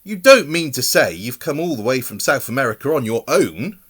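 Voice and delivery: astonished that he came alone; exclaiming. A narrator's reading. Mother astonished the bear travelled alone, exclaiming. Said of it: "exclaimed Missus Brown".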